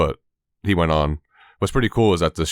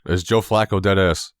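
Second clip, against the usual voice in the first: a touch louder, drawn out; louder retake. Shown as a demonstration. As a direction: say it slower and a bit louder. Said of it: "Oh, louder".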